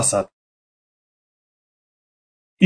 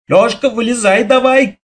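put-on boy calling; 7 semitones higher than usual. A narrator's reading. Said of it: "крикнул я".

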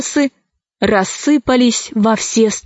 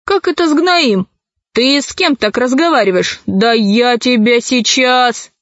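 put-on angry old man. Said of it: "рассердился старик".

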